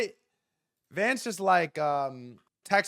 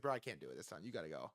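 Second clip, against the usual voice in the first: Trump; 10 semitones lower, 18 dB quieter, much faster than usual. Retold or imitated. Voicing Trump begging off to Vance.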